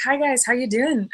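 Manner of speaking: a hint of mock Irish; horrible Irish accent. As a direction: do a poor Irish greeting. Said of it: "that was a horrible Irish accent".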